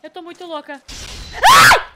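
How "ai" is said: startled scream. Real, not acted. Sudden scare in game.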